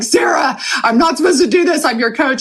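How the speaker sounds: high, fast, tearful protest; pleading she can't break down; upset plea. Retold or imitated. To her friend Sarah on the phone, a high tearful protest. Telling friend while sobbing.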